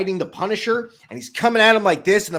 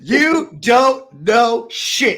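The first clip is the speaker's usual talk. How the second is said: mock taunt; 3 semitones higher, 5 dB louder, slower than usual. Joining the joke about the kid.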